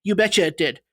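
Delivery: lightly attempted Minnesotan, reading a complaint letter; Minnesotan accent. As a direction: imitate a Minnesotan, loosely. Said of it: "to mimic a Minnesotan".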